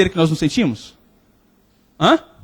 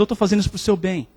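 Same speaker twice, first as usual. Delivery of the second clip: gentle reassurance; 3 semitones lower, 5 dB quieter than usual. Acted. God gently answers the sufferer.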